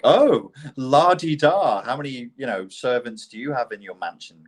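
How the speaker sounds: mock posh taunt. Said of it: "They'd be like".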